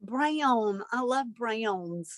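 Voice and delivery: "Brown" stretched into two syllables, like "bray-own"; "Brown" with a glide that splits it in two. Real, not acted. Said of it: "Did you say that with two syllables?".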